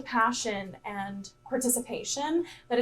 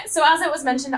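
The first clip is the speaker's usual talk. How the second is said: teacher voice; 4 semitones higher, 6 dB louder, faster than usual. Real, not acted. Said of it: "I'm gonna use my teacher voice".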